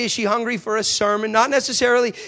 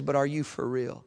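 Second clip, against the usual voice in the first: stunned question; 5 semitones lower, 10 dB quieter than usual. Retold or imitated. Atheist asks again, stunned.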